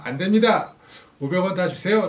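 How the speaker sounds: stern refusal. Pretend. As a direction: put your foot down, mock serious. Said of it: "정색을 하며".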